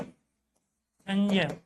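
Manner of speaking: संजय drawn out very slowly, each sound clear; slow clear model word. Shown as a demonstration. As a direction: stretch संजय out like a teacher modelling it. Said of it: "यहाँ संजय शब्द का प्रयोग किया".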